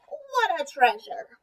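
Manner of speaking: slow, drawn-out croaky delight; hammed-up frog marvelling. Tomato the frog admires the ball, slow mock croak. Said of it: "he croaked".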